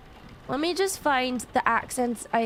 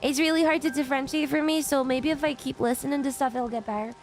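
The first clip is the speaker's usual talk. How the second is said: attempted Irish accent, a little Scottish. Streamer explaining a weaker accent to chat, in an attempted Irish accent. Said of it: "one of my weaker accents".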